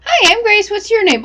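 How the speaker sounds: high, loud little doll voice; talking doll. Acted. The doll speaks when the string is pulled.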